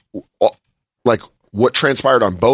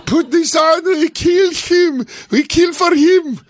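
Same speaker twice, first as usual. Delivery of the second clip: high, slow, hammed-up zealot chant; mock a frenzied fanatic rallying a crowd; fanatic fervor; 13 semitones higher, slower than usual. Host mocks the comic as a crazed zealot, high mock fervor. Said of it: "the fervor of an isis member".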